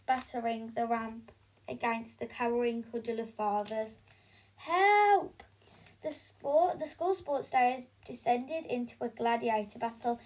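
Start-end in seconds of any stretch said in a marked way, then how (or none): 4.6-5.4 high, loud mock cry for help; a hammed-up panicked yelp; the hoisted headmistress cries out in mock panic.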